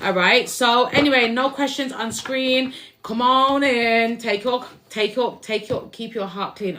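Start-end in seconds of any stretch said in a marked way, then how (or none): 4.2-6.8 stuttering over the words. Real, not acted. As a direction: trip over the words nervously. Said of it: "I'm stuttering".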